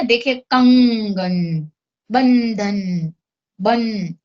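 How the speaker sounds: कंगन, बंधन, बन said slowly, the nasal before ग and ध drawn out through the nose; slow nasal demo. Shown as a demonstration. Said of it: "ये नाक से उच्चारित हो रहा है". (कंगन, बंधन को धीरे-धीरे नाक से बोलकर दिखाना)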